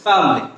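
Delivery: family in two syllables, fam-lee; contracted pronunciation. Shown as a demonstration. Teacher repeating the example sentence, family as fam-lee. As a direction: say family without its middle vowel. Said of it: "make a sentence from the word".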